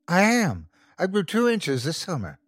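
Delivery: put-on a touch of a boy showing off; boasting kid voice. A narrator's reading. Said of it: "Brian boasted".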